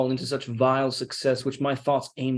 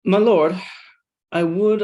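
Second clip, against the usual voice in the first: louder and higher, calling after him; raised call across the room; 6 semitones higher, 7 dB louder than usual. Acted. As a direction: call him back before he leaves. Iago calls after departing Othello.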